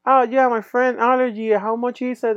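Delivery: lightly voiced, high and relaxed; calm Melvin. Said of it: "pagando súper tranquilo".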